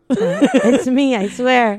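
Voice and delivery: raspy, worn-out voice; hoarse voice. Real, not acted. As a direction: talk with a lost voice. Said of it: "nice voice".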